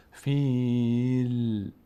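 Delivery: فیل ending on a still ل; correct فیل. Shown as a demonstration. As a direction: stop the tongue on the ل of فیل. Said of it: "توقف کنید". (فیل با لام ساکن)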